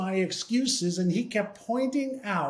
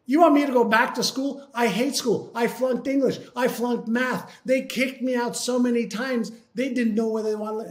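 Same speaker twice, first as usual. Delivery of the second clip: alarmed protest; 4 semitones higher than usual. Retold or imitated. Protesting going back to school.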